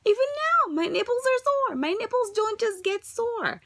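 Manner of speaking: high, teary, breaking voice; crying through words. Real, not acted. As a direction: push the words out while crying.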